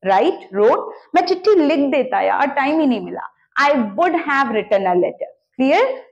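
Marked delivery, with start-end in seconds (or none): 3.7-5.3 slow model sentence. Shown as a demonstration. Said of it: "teacher modelling sentence".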